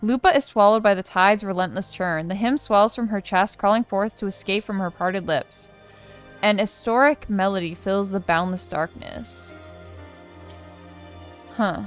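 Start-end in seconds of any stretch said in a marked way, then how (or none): 0.0-9.6 dramatic read-aloud, stresses lifted on key words; story narration. Acted. Reads quest story text aloud.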